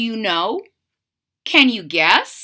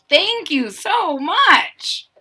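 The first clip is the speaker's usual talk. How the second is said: 1 polite thanks; 4 semitones higher, much slower than usual. Shown as a demonstration. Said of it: "you'd probably say".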